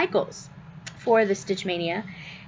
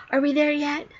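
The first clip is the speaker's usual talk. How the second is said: put-on pestering child; 6 semitones higher than usual. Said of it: "like a little kid".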